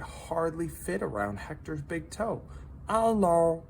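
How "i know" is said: high little creature voice, gently pitying; a tiny pet breaking hard news kindly; sympathetic salamander voice. A narrator's reading. Minton consoling lonely Hector, high sympathetic voice. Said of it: "said Minton".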